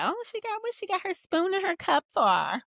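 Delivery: high, put-on nosy viewer voice; hammed-up judgy viewer asking about the spoon; mock nosy viewer. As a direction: sass it like a judgy commenter. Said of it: "y'all be like".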